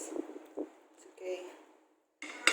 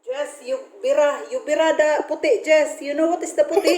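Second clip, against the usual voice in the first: calling out loud; 2 semitones higher, 10 dB louder, faster than usual. Real, not acted. Mother calling to daughter.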